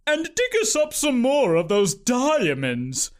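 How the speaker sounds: giggled. A narrator's reading. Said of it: "Aunt Crickery giggled".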